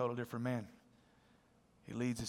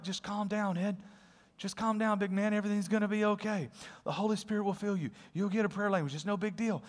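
calming reassurance; 2 semitones higher, 4 dB quieter than usual. Retold or imitated. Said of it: "I'm like".

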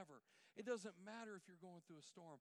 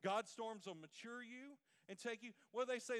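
louder, driving preacher cadence; full-force preaching; 4 semitones higher, 8 dB louder than usual. Acted. Pastor driving his point home to the church, fervent. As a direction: build the congregation up.

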